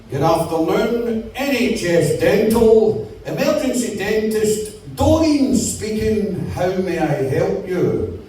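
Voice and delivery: slow, drawn-out helpline greeting; receptionist's phone manner. Acted. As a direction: recite a stretched-out switchboard greeting as a receptionist. Voices helpline receptionist answering.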